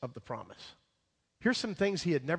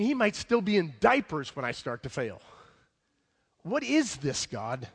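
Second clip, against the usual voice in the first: disbelieving Abraham; 3 semitones higher, 3 dB louder than usual. Retold or imitated. Preacher voicing Abraham's disbelief.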